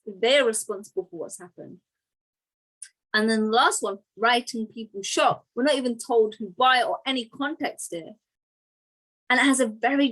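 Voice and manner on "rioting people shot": "shot" lands as the final weight; stress on shot. Shown as a demonstration. Teacher showing a more alarming headline, stress on "shot". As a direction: read the short headline, leaning on "shot". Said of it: "the emphasis is actually on the verb shot".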